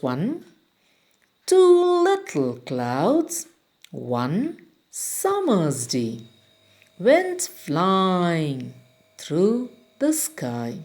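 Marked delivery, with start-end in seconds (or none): 1.5-10.8 slow, sing-song reading of the verse; poem recitation. Shown as a demonstration. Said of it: "read, recite".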